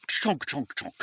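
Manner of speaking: chunky sound-effect words, one by one; imitated clunking pack. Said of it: "everything in my pack goes".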